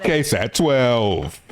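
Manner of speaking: slow, drawn-out station sign-off with a laugh; dragged-out mock anchor sign-off; mock news sign-off. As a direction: say the call letters like a hammed-up anchor.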